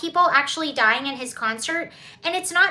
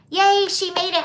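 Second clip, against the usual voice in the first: excited yay; 4 semitones higher, 5 dB louder than usual. Real, not acted. Greeting a viewer who arrived.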